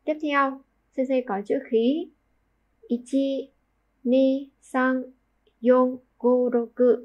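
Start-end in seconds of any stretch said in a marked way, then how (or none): 2.9-7.0 Japanese counting, each number set apart; counting strokes. Shown as a demonstration. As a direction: count six strokes aloud. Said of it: "sáu nét".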